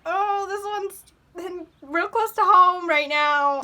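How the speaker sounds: hushed aside. Real, not acted. Song hits close to home.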